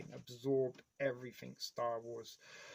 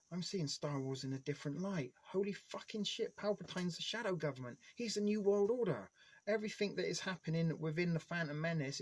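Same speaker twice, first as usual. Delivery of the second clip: rising higher into a conspiracy realization; mock revelation; 4 semitones higher than usual. Conspiracy-minded fan discovering hidden Star Wars meaning, excited. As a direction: build up to a wide-eyed eureka. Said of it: "all of a sudden I'm like".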